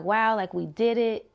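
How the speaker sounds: a touch of wonder, lifted a little; mildly excited. Retold or imitated. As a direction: retell a small cheer of triumph. Retold heroine celebrates her victory.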